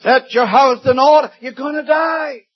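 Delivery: high, loud, blunt declaration; a prophet shouting the death sentence; blunt proclamation. Retold or imitated. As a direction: thunder out God's verdict. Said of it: "Isaiah had to be faithful in declaring this".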